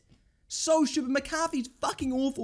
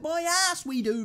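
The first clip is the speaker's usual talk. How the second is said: higher-pitched, indignant disbelief; scornful retort; 5 semitones higher than usual. Real, not acted. Fan rejecting the manager's scoring claim, indignant and high.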